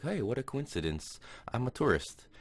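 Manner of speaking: high, eager retold greeting; imitated excitement. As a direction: play a delighted tourist, pitched well up. Acts out Hector meeting a student.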